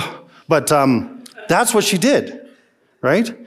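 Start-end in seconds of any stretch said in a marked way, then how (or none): 0.0-0.3 disgusted ugh. Retold or imitated. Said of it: "even just reading that goes".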